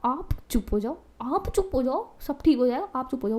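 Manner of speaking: softly hushing, imitating the earlier plea; retold quiet pleading. Daughter asks mom to be quiet, in a retold soft voice. Retold calming of the instigated mother.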